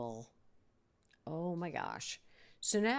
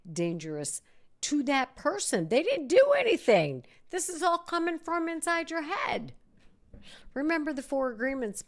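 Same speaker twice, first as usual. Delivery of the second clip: much higher and louder, insisting; emphatic and loud; 9 semitones higher, 8 dB louder than usual. Real, not acted. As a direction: hammer the point home to the audience. Emphatic warning to listeners.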